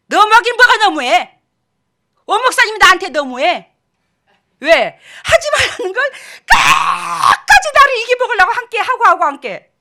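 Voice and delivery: loud, high, exasperated outburst; heated scolding that climbs into a cry; indignant retort. Acted. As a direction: throw the accusation back, nearly shouting. Heated retort to an imagined accusation.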